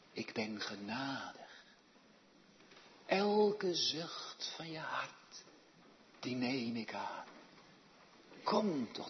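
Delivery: God's hushed coaxing call; gentle divine invitation. Acted. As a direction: coax the sinner home tenderly. Voicing God inviting sinners.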